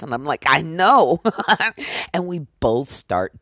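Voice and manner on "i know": laughing. Retold or imitated. Danae laughing reply.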